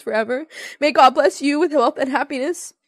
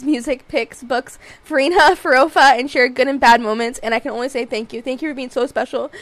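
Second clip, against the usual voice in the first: lower, even reading voice; reading a letter aloud; 3 semitones lower than usual. Acted. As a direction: read a heartfelt message out steadily. Reads a friend's letter aloud.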